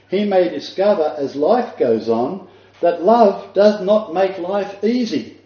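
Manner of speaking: slowed right down to let it land; preacher drawing out each word; slow, weighty reading. Shown as a demonstration. Preacher reading a quote slowly to his congregation. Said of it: "Let me repeat that".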